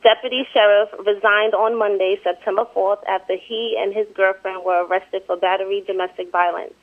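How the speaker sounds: measured, even article reading; amateur newsreader delivery; news report read aloud. Real, not acted.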